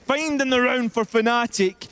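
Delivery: high, loud, slow hype; hype call. Acted. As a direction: crown the clutch player. Hyping the clutch player.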